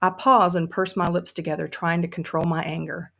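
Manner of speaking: put-on storytelling in an amateur Southern accent. Frustrated Sue narrates from her basement, Southern accent. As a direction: read it as a frustrated Southern woman. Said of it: "I'm gonna do this in a Southern accent".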